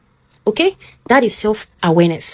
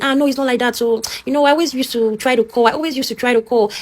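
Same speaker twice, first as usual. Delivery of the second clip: defensive excuse; 4 semitones higher than usual. Retold or imitated. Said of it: "you quickly defend yourself".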